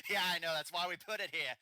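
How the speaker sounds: high cackle into quick, loud reply; mocking bandit laugh. Bandit to kobold about the ambush spot, mocking.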